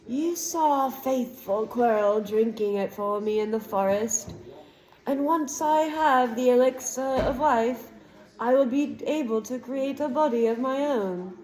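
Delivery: a lightly voiced evil face, savouring each word; villain boasting to the cornered boy; menacing dark lord.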